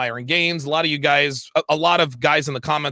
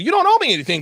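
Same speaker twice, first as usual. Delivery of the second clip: retold outburst; 10 semitones higher, much faster than usual. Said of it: "I told him straight up".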